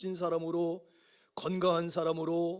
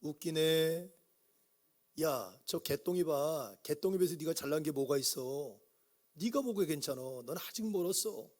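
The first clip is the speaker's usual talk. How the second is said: mocking Satan; 2 semitones lower, 4 dB quieter than usual. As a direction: taunt him like the devil would. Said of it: "사단은 뭐라고 말하냐면".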